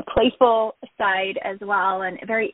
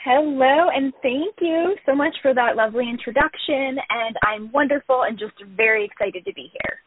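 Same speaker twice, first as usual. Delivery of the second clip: bubbly, higher-pitched greeting easing toward the end; 4 semitones higher than usual. Real, not acted. Guest thanks host for the lovely introduction, bubbly. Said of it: "You sound so bubbly".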